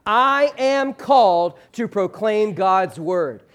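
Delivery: slow, every word given its own weight; a deliberate congregational read-aloud pace; slow unison recitation. Shown as a demonstration. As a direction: lead the room through it word by word. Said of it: "just for emphasis' sake".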